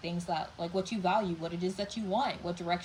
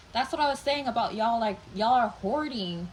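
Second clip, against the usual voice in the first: loud, worked-up scolding; passionate near-yell; 4 semitones higher, 6 dB louder than usual. Real, not acted. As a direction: push it out loud and impassioned. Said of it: "I'm not trying to yell at you".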